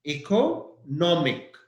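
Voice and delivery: economic with the stress on no; stressed syllable. Shown as a demonstration. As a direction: lean on the middle syllable of Economic. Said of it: "the stress is N O".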